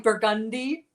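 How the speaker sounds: "Burgundy" with mock narrator emphasis; imitating audiobook narrator. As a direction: punch "Burgundy" as the narrator does. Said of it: "just listen to, yeah, like".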